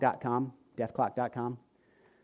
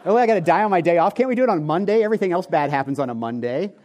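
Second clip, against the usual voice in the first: mock complaint; 3 semitones higher, 4 dB louder than usual. Real, not acted. Joking complaint about death date.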